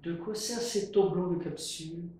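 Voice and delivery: curious. Acted.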